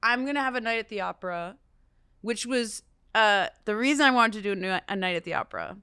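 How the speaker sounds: fast, jittery from espresso; rushing on too much coffee; over-caffeinated. Real, not acted. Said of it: "I'm, like, so caffeinated right now".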